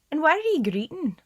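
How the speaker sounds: high, loud little frog voice; frog's eager question. Acted. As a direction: pipe up brightly as a small talking frog. Frog speaks to crying girl.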